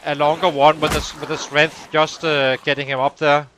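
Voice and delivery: panting slightly between words; out of breath. Real, not acted. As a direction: speak winded after running. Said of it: "And now I kinda out of breath".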